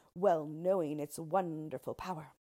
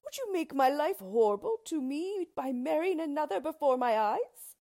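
high, loud anguished appeal; impassioned, raised-voice reproach; reproachful king; 9 semitones higher, 7 dB louder than usual. A narrator's reading. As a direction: demand an answer as a betrayed lover. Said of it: "said the king".

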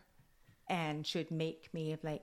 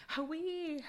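retold cold exclamation; 12 semitones higher than usual. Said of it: "I was really cold".

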